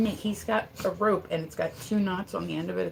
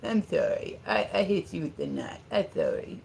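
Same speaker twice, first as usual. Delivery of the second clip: apologetic puppy; 3 dB quieter than usual. Acted. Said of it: "He's like".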